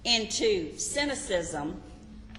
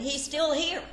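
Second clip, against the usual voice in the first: laughing punchline; 5 semitones higher than usual. Pretend. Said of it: "It would look like this".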